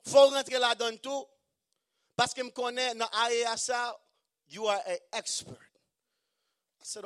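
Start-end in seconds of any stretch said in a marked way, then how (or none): 0.0-5.6 loud, high eager salesman; a touch of a pushy businessman pitching; mock eager pitch. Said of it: "Il dit".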